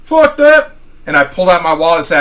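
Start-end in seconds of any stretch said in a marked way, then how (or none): 0.0-0.8 high, loud exclamation; imitated loud refusal. Buddy refuses to be pierced, loud and high. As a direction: blurt it out, pitched right up.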